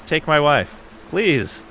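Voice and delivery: deadpan setup, then a quick tag line; comic punchline. Acted. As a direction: land the joke for the crowd. Chip's stand-up punchline.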